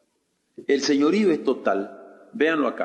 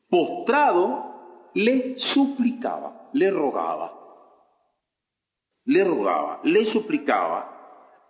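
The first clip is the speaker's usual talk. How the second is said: slow pleading narration; slower than usual. Acted. Preacher acting out servant begging.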